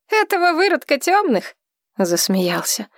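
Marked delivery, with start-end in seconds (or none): 0.1-1.6 high mocking sneer; sneering guard. A narrator's reading. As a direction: jeer as a cruel guard.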